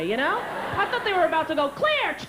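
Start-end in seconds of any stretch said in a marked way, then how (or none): 1.7-2.2 high-pitched "clear!" call; imitated medic call.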